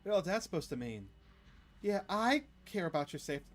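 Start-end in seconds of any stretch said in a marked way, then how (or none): 1.8-3.5 mock ominous echo. Mocking the ominous line.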